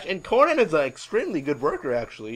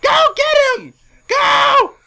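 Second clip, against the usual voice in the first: very high, piercing screamed cheering; mimicked woman's shrieking; 13 dB louder, slower than usual. Woman at ringside urging Flair on, shrieking. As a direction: scream them on at full pitch. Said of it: "she's like going".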